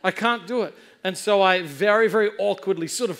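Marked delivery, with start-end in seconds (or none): 0.0-0.7 raised-pitch retold protest; hammed-up helplessness; mock panicked refusal. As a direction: plead that you cannot jump.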